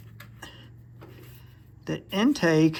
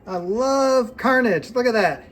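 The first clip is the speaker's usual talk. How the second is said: gleeful relish; 5 semitones higher, 4 dB louder than usual. Real, not acted. Mechanic showing off a wrecked engine, with gleeful relish. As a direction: savour it, stretching the words.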